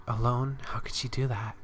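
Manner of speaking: whispered in fear; frightened whisper. Acted. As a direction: breathe the words scared. Fear creeping in.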